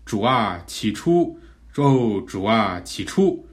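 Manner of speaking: fervent pray-reading aloud; 示范祷读. Shown as a demonstration. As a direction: call on the Lord, dwelling on the verse's words. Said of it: "我们就可以这么说". (恳切地呼求祷读)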